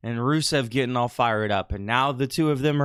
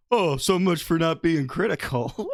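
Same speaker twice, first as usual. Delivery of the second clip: lightly imitated needling jibe; teasing jab; 3 semitones higher than usual. Retelling how Chris was poking the bear, teasing jab. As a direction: poke the bear with a mild mock taunt. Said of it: "poking the bear, said".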